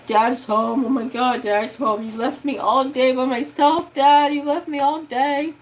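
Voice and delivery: put-on high, loud whiny squeal like a crying baby; squealing dog voice. Trapper greeting dad at the door, high squealing puppy voice. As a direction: voice the dog freaking out that Dad is finally back. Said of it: "squealing like a little baby".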